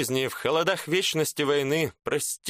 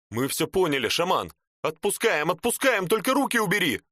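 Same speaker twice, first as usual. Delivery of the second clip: panicked pleading; 7 semitones higher than usual. Acted. Burned soldier begs shaman to stop.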